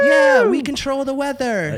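mocking the crowd cheering the preacher; mock congregation. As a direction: ham up a smug believer.

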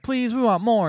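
imitating pleading children, high pitched; begging kids. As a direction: beg like a kid wanting treats. Kids begging in retold scene.

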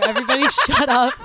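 high, loud, quick telling-off; mock yell. Teen host hushing everybody, in a high mock yell. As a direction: shout the room down in play. Host hushes the laughing audience.

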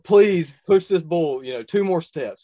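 loud, high desperate plea to God; retold loud prayer at full draw; pleading prayer. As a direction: beg the Lord out loud, voice straining.

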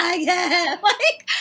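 high, loud choked-up cry; mock sobbing through laughter; imitating breaking down in tears; retold tearful cry. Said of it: "And I'm like".

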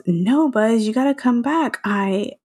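half-yelled plea, voiced as Woody; mock yell. Podcast host retelling Woody calling Buzz back, mock yell. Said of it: "He yells".

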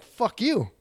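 high-pitched retold comeback; mock defiant retort. Teller insults neighbor stuck on machine, mock defiant retort. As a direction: pitch it up, acting out indignation.

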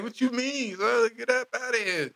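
high, bristling street talk; mock street tough. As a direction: shoo off the intruder. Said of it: "voicing a hood robot scene".

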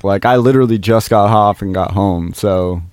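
talking with a parched mouth; words sticky from a dry mouth. Real, not acted. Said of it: "Sorry, I have a very dry mouth right now".

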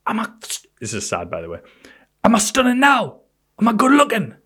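high needy voice. Retold or imitated. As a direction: beg for reassurance in a high voice. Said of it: "And she went".

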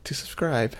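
slow, robotic phone menu voice; automated phone menu voice. Pretend. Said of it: "You got your customer service voice on".

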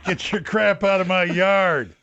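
slow, drawling put-on homeowner; acted Michigan caller. Michigan homeowner phoning China, slow mock complaint. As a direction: complain slowly down a pretend phone line.

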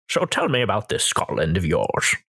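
low Scottish brogue quoting a film line; a Scotsman barely pretending to be Spanish, low; Sean Connery Scottish. DM quoting Highlander to his co-host, in Scottish Sean Connery voice. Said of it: "he just says the line".

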